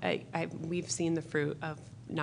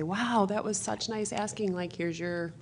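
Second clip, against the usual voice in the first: mock praise. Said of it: "then you say".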